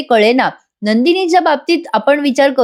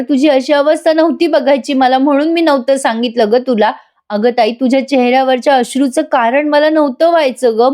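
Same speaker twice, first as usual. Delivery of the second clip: higher, tearful-sounding plea for forgiveness; begging younger sister; 3 semitones higher than usual. Acted. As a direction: plead with your sister, rising as you beg. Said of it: "Kavya तरी पण म्हणत असते". (दुखावलेल्या ताईकडे धाकटी बहीण उंच स्वरात गयावया करते)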